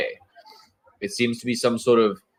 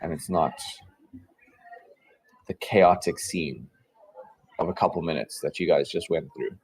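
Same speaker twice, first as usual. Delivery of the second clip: game master's scene setting. Acted.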